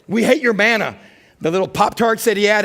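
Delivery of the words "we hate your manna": mock whine. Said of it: "That's kind of a new chorus".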